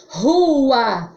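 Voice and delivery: "Rua" with initial R like H; strong R. Shown as a demonstration. Teacher gives another example, strong h-like R in "Rua". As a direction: draw out "Rua", starting on a breathy h. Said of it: "Som forte".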